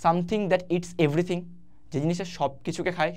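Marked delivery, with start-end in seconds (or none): 0.0-1.4 slow, deliberate gloss; slow explanation. Shown as a demonstration. Teacher explaining omnivorous to students, slow and deliberate. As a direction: draw each word out for the class. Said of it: "vorous মানে খাওয়া দাওয়া".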